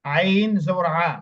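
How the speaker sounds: drawn-out, slow spelling of each syllable. Shown as a demonstration. Teacher spelling out আইন জবর আ very slowly for the student. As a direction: stretch each sound out for the student. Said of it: "এভাবে।".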